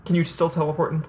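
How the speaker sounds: talking with hiccups; hiccuping between words. Real, not acted. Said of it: "I'm sorry, I have the hiccups".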